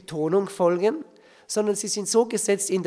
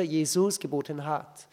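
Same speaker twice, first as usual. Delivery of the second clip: "Jesus" leaning on its last syllable; unnatural stress; 3 semitones lower than usual. Shown as a demonstration. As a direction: lean on "-sus" and the closing "hat". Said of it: "einiges ist ein bisschen unnatürlich". („Jesus“ hinten betont, „hat“ hervorgehoben)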